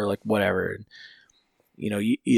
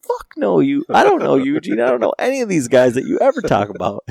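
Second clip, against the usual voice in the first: much higher, louder fast rant; exasperated outburst; 7 semitones higher, 6 dB louder than usual. Retold or imitated. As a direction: blurt it out fed up with the names. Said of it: "And I go".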